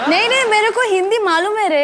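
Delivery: fast, high, streetwise Bombay Hindi; Dadar Bambaiya Hindi. Real, not acted. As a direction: rattle it off like a Dadar local. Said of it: "आई तो एकदम दादर वाली निकली".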